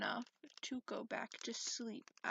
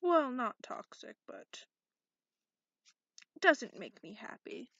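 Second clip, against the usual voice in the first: much louder, exasperated burst; grumpy outburst; 10 dB louder than usual. Acted. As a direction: blurt it out loud in frustration.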